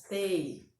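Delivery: "tei" with the A said as an English "ay"; English vowel sound. Shown as a demonstration. Teacher shows students how A sounds in table, clearly sounded-out "tei". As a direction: say "tei" slowly and clearly, gliding from e to i. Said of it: "o A aí tem som de E".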